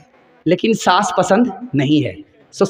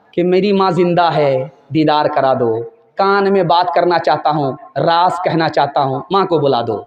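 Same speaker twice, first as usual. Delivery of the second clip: pleading son; 4 semitones lower than usual. Acted. Condemned son pleads for mother.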